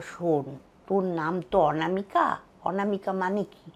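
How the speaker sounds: soft, fatherly reassurance; low-key, tender retelling; retold gentle consoling. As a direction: quietly comfort someone who is hurt. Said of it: "বলে আমার মাথায় হাত দিয়ে".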